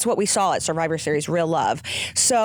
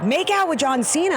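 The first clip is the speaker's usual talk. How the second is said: incredulous high rising question; surprised question; 9 semitones higher than usual. Retold or imitated. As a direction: echo it back in disbelief. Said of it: "everyone's like".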